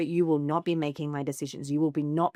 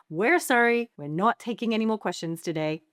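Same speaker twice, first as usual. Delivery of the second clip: polite press brush-off; 3 semitones higher than usual. Shown as a demonstration. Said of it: "very politely go to the mic".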